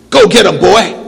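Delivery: loud, eager call; calling the dog. Acted. Pete sending Buck after ducks, loud call. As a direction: send the dog off with a shout.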